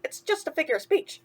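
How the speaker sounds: chirpy sidekick asking what's wrong; a hint of cartoon mouse; lightly voiced mouse. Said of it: "Timothy explained".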